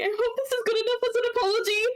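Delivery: very high, rushed little voice; timid apology. Acted. Nixie offers a handmade gift, timid apology. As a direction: blurt the apology fast and high.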